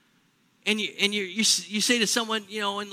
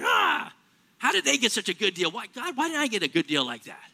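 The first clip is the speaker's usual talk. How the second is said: inner envious wail. Retold or imitated. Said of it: "Inside, you're going".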